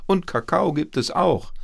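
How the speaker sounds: loud, high grandma call. A narrator's reading. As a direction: call cheerily into the next room. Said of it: "rief die Oma ins Bad". (laut ins Bad rufen)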